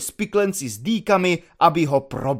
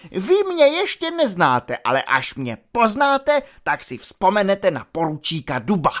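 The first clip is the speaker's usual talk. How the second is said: higher, rising angry threat; threatening outburst; 4 semitones higher than usual. Acted. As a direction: bellow the threat up high. Lieutenant threatens cadet.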